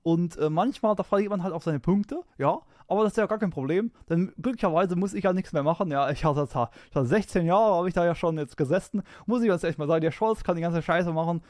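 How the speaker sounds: a hint of Merkel's measured address; steady chancellor speech tone, light impression; mild Merkel speech impression; Angela Merkel. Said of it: "that was a Angela Merkel impression".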